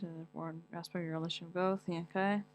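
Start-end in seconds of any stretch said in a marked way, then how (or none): none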